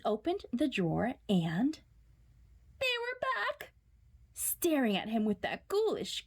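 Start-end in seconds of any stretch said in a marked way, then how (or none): 2.8-3.7 shocked gasp. A narrator's reading. Shock of discovery.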